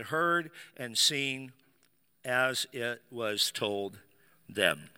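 solemn reading of the Christmas story; scripture reading. Acted. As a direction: read it like Bible reading in church. Reads Luke chapter two aloud.

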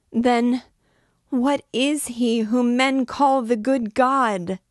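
high, loud screams of curses and for help; frantic screaming. A narrator's reading. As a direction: scream it out, words tumbling over each other. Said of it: "her voice now pierced the ear like a saw".

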